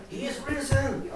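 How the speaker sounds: high, charged exclamation after a long wind-up; imitating the guide's charged cry; built-up proclamation. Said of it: "Och han laddade, vet ni, långt".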